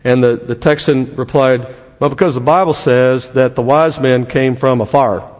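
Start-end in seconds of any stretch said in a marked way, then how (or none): 2.0-5.3 slow Texas drawl; Texas accent. Acted. Texan local explaining the firemen to a visitor, Texas accent. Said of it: "It's my best Texas accent".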